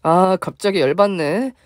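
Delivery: drawn-out annoyed grumble; slow huffy complaint; slow mock irritation. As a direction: let the annoyance drag out. Mother-in-law irritated.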